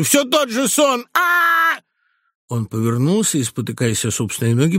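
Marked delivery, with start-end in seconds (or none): 0.0-1.8 much higher, slow, stretched-out cry; terrified old man's dragged-out shout; frightened old man's cry. A narrator's reading. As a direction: howl it like a tormented old man. Old man crying out in terror.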